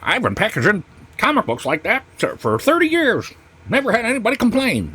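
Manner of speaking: high mocking old-timer voice; mock seller. Mocking the seller who packs comics badly, high and smug. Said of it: "where they're like".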